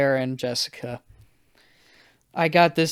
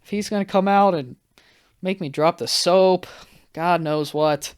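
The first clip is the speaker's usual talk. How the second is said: mildly panicked worrying, pitched up in places; retold freak-out; 4 semitones higher than usual. Guest told he's going to prison, mock freak-out. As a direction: spin out into comic dread. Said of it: "I'm freaking out".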